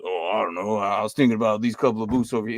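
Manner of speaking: lightly imitated deep-voiced rookie; a hint of deep-voice impression; D K's deep voice. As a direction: drop the pitch a little, imitating a deep voice. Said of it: "D K had this, this deep voice".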